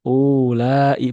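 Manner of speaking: "ulai" slowly with the waw voiced long; wrong pronunciation. Shown as a demonstration. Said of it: "Bukan ulai".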